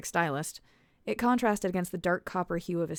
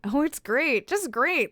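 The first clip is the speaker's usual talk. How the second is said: high, louder sarcasm; sarcastic; 8 semitones higher, 7 dB louder, slower than usual. A narrator's reading. Alice mocks her wrecked car to Oswin, sarcastic. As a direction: drip with sarcasm.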